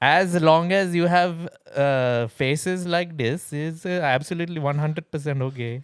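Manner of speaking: put-on light Indian accent, slow; mock Indian accent, unhurried. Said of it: "really quite good Indian accent".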